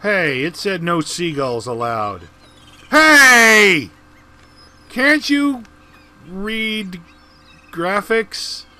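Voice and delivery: mock outraged yell. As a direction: scold the bird like it ignored the sign. Yelling at a seagull in game.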